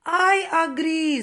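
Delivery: loud, slow exclamation; a loud exclaimed agreement; exclaiming. Acted. Exclamation mark agreeing loudly with the others. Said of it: "says the exclamation".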